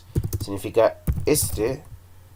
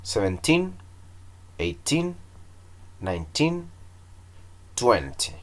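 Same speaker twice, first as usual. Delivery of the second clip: a bit faster; 3 semitones higher, 8 dB quieter than usual. Shown as a demonstration. Teacher speeding up the drill for students, a bit faster. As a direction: count these off a touch quicker. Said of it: "un poco más de velocidad".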